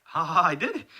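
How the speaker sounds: high, loud victorious crowing; gloating triumph. Acted. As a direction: crow over the win with a mock laugh. Character gloats after killing boss.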